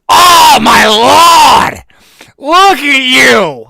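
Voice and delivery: mock Boston girl squealing at a first date; loud Boston accent. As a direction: yell it like an excited Boston girl. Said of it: "the Boston accent".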